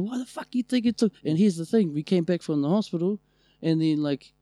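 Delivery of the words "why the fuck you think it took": high-pitched imitation of an indignant rant; imitated outraged complaint; mock ranting. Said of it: "he's just ranting".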